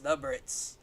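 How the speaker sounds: high, put-on British drawl; posh British voice. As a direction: say it like a posh Brit. Mock build-up before British bit.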